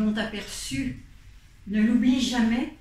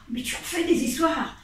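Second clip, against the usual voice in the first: scolding; 5 semitones higher, faster than usual. Acted. Aunt scolds refusing nephew.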